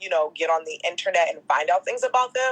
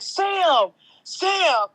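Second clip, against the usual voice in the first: mock yell; 11 semitones higher than usual. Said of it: "this guy kept screaming at him".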